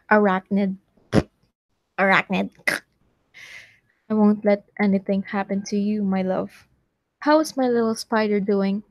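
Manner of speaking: tongue-in-cheek romantic reading; reading fan fiction aloud. Acted. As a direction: read out a sappy love story, a little dramatic.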